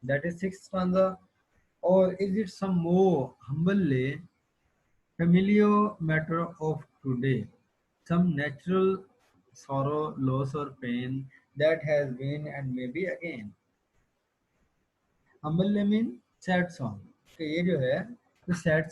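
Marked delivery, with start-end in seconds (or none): 1.8-13.5 slow, measured verse reading; unhurried classroom poetry reading; poem recitation. Acted. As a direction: read each phrase out slowly and deliberately. Reads the poem aloud to class.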